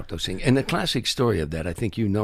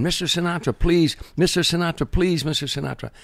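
much higher, pleading cries of a singer's name; retold desperate screaming; 9 semitones higher than usual. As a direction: beg him from behind security, voice pitched way up. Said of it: "she started screaming".

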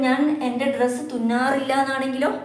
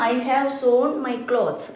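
slow, careful "I have sewn my clothes"; slow model sentence; much slower than usual. Shown as a demonstration. Teacher reading the example sentence slowly to students. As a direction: spell each word out slowly for learners. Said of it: "മൂന്നാമത്തെ form".

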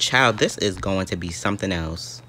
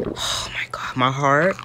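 shaken whisper; 4 semitones higher, slower than usual. Real, not acted. Recovering from fright.

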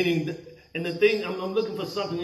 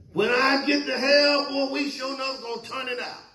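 mock bragging; 9 semitones higher than usual. Mocking sinners bragging about hell.

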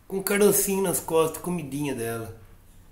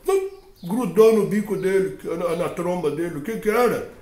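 ordinary delivery

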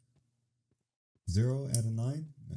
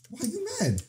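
high mock teasing; 13 semitones higher than usual. Real, not acted. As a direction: tease the angry little creature up high. Teasing an angry Pokemon.

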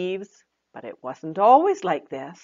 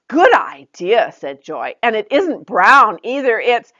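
higher, louder cheerful praise then hint; Joy encouraging; 5 semitones higher, 8 dB louder than usual. Acted. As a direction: praise her and leave a gap. Joy pleased.

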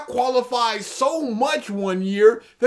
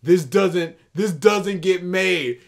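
mock indignant whine; 8 semitones lower, slower than usual. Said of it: "than just".

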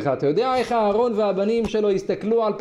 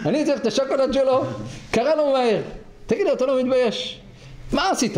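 mild angry minister; 5 semitones higher than usual. Acted. Angry minister scolds shepherd.

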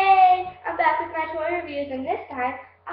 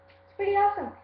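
higher and louder, thrilled; excited; 8 semitones higher, 4 dB louder, faster than usual. Real, not acted. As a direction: gush about the toy. Repeats the phrase with more excitement.

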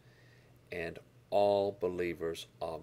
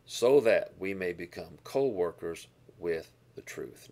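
louder, firm full-voiced "So that we may become co-workers with the truth"; proclaimed verse; 7 dB louder than usual. Real, not acted. Pastor repeating the key verse to his congregation, louder proclamation. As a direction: declare the verse out to the room.

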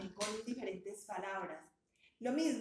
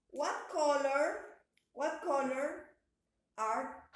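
slow teaching question; 3 semitones higher, 4 dB louder, much slower than usual. Shown as a demonstration. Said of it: "teacher asking, slow and loud".

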